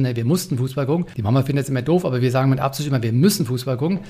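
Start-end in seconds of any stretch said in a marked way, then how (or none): 0.1-1.1 mussten leaned on as a duty; stress on mussten. Shown as a demonstration. Father explains they had to watch football, stressing mussten. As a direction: weigh the word mussten heavily. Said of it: "also die Betonung ist mussten".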